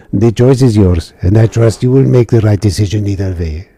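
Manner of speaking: a new silly voice for the officer; officer offering the mission in a silly voice; different silly voice. Acted. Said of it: "Different silly voice".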